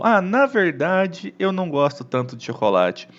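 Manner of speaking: mildly hesitant "on second thought" tone; hesitant correction. Shown as a demonstration. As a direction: correct yourself gently, taking your time. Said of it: "Sabe quando a gente vai falar alguma coisa".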